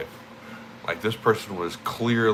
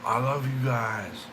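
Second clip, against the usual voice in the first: retold straining yell; 5 semitones higher, 4 dB quieter than usual. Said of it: "my voice was cracked".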